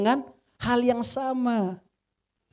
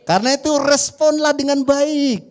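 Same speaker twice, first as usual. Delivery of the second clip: louder, higher, pressing the point on RESPONLAH; loud exhortation; 6 semitones higher, 7 dB louder than usual. Real, not acted. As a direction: drive the call home to the congregation. Preacher urging the congregation.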